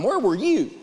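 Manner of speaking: ordinary talk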